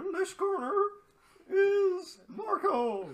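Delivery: high, drawn-out ring announcer parody; hammed-up boxing match intro. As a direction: belt out the fighter's introduction, stretching the name. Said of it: "like in a boxing match".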